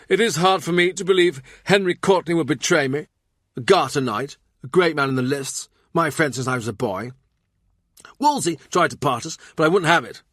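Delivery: a touch of royal hurt disbelief; lightly voiced king. A narrator's reading.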